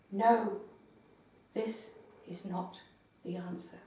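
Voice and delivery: very soft, low and halting; hushed whisper. A narrator's reading. Victim answering her attacker in the poem, hushed whisper. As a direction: drop to a near-whisper, pausing between phrases. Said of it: "I hear her whisper".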